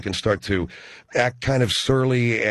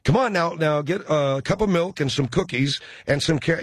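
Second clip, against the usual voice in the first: coaxing parent; 4 semitones higher than usual. Retold or imitated. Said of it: "They're rolling their little eyes".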